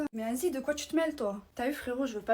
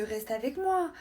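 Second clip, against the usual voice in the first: mocking his plea; 3 semitones higher, slower than usual. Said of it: "quand je suis pas là, c'est à base de".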